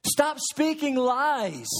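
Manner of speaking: slow, measured command; firm and deliberate, each word given room; Jesus Christ. Acted. Christ speaking to his children this morning, slow command. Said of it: "Jesus Christ is saying through the scriptures".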